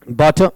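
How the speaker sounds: "बटर" with an open aa, as baa-tuh; "बटर" like baatuh, no final r; wrong first vowel. Shown as a demonstration. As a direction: say "बटर" opening on a long a. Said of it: "बटर नहीं बना".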